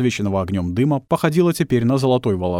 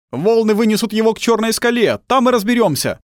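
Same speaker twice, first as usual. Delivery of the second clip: high, loud commanding call; calling shout; 12 semitones higher, 4 dB louder than usual. A narrator's reading. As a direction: call out the plan to the others. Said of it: "раздался голос".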